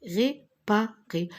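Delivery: réparer slowly with falling end; slow syllables. Shown as a demonstration. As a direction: sound out réparer again. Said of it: "R et ré". (réparer syllabé)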